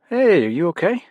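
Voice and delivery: dad asking his daughter with real concern. A narrator's reading. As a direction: check on her with real concern. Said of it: "real concern in his voice and face".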